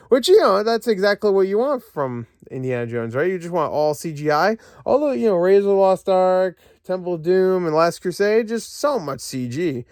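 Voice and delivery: high, mock-cheerful sarcasm; sing-song sarcastic praise. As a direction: gush falsely about the CGI.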